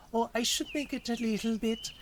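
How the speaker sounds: put-on German accent with rising ends; stereotypical German accent. Streamer explaining how they recall voices, put-on German accent. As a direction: keep up the mock German accent. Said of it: "regular German".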